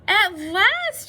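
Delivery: high, loud exclamation; joyful shout. A narrator's reading. Toad seeing his plants finally sprout, shouting. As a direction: shout it out in triumph. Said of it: "shouted Toad".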